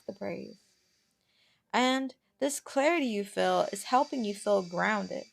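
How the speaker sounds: measured meditation guide with long pauses; guided meditation. Acted. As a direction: gently talk them inward, pausing between phrases.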